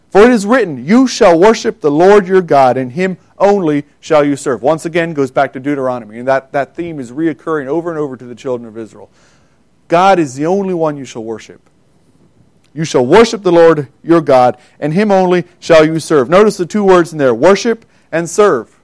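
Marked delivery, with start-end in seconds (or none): 0.1-4.6 louder proclaimed quote of scripture; ringing preached verse; emphatic scripture. Acted. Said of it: "he responds emphatically". 12.7-16.3 louder emphatic pulpit delivery; full sermon voice; preaching. Real, not acted. Preaching verse with force.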